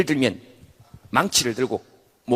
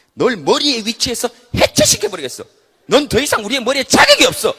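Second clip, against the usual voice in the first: loud, higher, righteous sentence; indignant verdict; 9 semitones higher, 9 dB louder than usual. Acted. Organs banish the head, loud indignant. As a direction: pronounce the head unfit.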